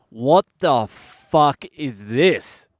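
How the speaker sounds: slow, drawn-out appalled disbelief; stunned disbelief. Retold or imitated. Little son voiced staring at the hotel room, slow stunned disbelief. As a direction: let each word land in horrified shock. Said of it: "the only way I could describe the look on his face is he was thinking".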